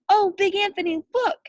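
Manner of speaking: a startled sister calls out a warning; alarmed nun. A narrator's reading. Nun warns Big Anthony about the overflowing pot, alarmed cry. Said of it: "a sister from the convent said".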